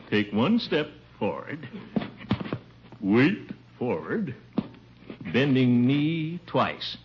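reading each step out slowly; slow step count. Acted. Uncle spelling out the dance steps slowly as he tries them. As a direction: sound each step out as you try it.

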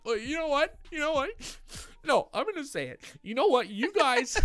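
high, loud defensive outburst; defensive yelling. Retold or imitated. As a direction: snap back at the guys, defensive. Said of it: "I just start yelling back".

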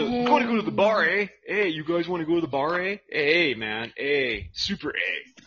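mock Canadian with tacked-on "eh"; playful stereotype of Canadian speech; Canadian accent. Inviting the guys to the bar, mock Canadian accent. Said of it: "I love Canadians".

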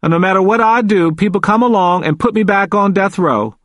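high-pitched, aggrieved protest; growing agitation. A narrator's reading. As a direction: plead your innocence, getting worked up. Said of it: "He was becoming agitated".

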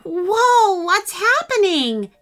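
put-on high, loud child's cry; startled alarm. A narrator's reading. Jacob feels the car lift off, startled. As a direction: exclaim in startled wonder.

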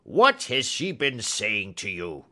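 understated fury, firm falling question; furious cry. Acted. Old man repeats his question to Holmes, furious. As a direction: press the demand with contained anger. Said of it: "cried the old man furiously".

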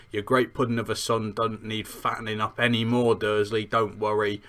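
lightly attempted rustic British accent; understated slangy accent with dropped T's; Hagrid. Podcaster quoting Hagrid from the book, light slangy accent. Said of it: "I'm sorry about my terrible accent".

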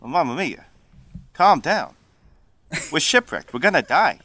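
lightly voiced New Jersey Italian; Italian turned New Jersey. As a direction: play an Italian who slips into New Jersey. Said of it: "Italian is gonna sound New Jersey".

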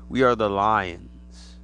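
slow, grand mock proclamation; lion alien. Lion alien declaring itself to humans, slow and grand. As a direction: announce it slowly like a grand invader. Animal aliens announcing themselves.

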